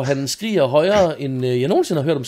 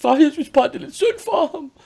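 put-on crying voice, much higher pitch; 13 semitones higher than usual. A father retelling how his daughter reacted, imitating Marie crying. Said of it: "hun begynder at græde".

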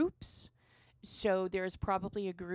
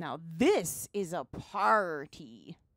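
loud put-on pirate accent; 2 semitones lower, 5 dB louder than usual. Roleplaying a character at a party, pirate accent. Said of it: "My pirate accent may not be the greatest".

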